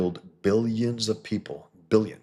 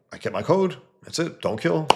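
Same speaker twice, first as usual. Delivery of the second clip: much higher, louder prissy boast; mock self-righteous Superman; 10 semitones higher, 4 dB louder than usual. Superman brags he kept his code, mock high sneer. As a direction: sneer it as a smug do-gooder.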